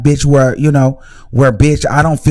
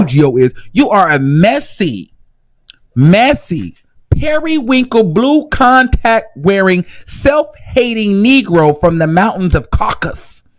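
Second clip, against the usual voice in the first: messy read; 5 semitones higher, slower than usual. Pretend. Mock read of Gio.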